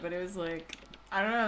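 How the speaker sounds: normal talking voice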